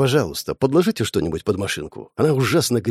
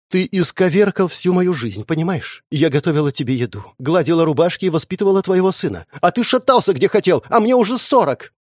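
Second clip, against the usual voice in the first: angry tirade; 6 semitones higher than usual. Acted. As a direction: pour out years of resentment, climbing higher. Wife berates husband in quarrel.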